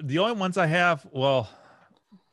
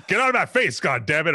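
James Earl Jones impression; 3 semitones higher than usual. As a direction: rant like an angry movie dad. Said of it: "That's pretty good, Jim".

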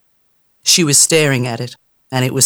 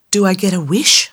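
whispered; 4 semitones higher than usual. Acted. Tammy asks again.

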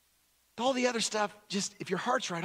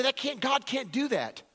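high mock protest; objecting people; 9 semitones higher than usual. People objecting to limits on God, high mock protest. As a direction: protest in a raised, higher pitch. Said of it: "And so people say".

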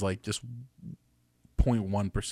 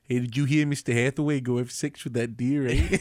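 mock Canadian accent. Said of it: "why we're Canadian now".

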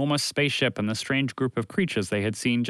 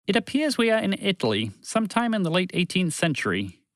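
calm announcement; 4 semitones higher than usual. A narrator's reading. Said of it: "calmly made an announcement".

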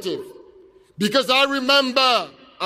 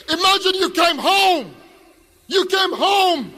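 raised, higher-pitched appeal to the crowd; impassioned appeal; 6 semitones higher than usual. Real, not acted. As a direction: urge the crowd to imagine it.

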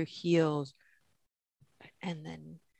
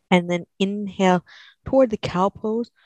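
louder and higher, lifting with the breath; energetic cue; 4 semitones higher, 9 dB louder than usual. Real, not acted. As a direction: pump up the energy on the rise. Cueing the rise into cow pose.

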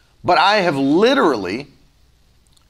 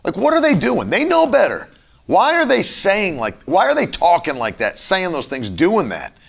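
irritated. Retold or imitated. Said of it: "I would instantly just get irritated".

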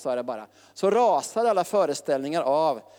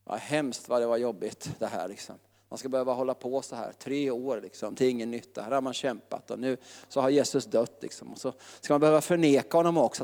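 self-pity; 4 semitones lower than usual. Retold or imitated. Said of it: "han skulle ju haft självömkan".

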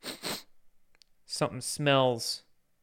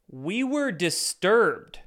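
slow sarcastic read; mocking, drawn out; 4 semitones higher, much slower than usual. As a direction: drag it out with scorn. Mocking NPR's statement.

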